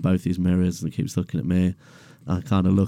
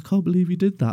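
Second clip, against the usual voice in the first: higher, lightly voiced woman; shocked lady; 11 semitones higher, much faster than usual. Customer appalled at the driver, lightly voiced high. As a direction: gasp it like an appalled neighbour. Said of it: "She's like".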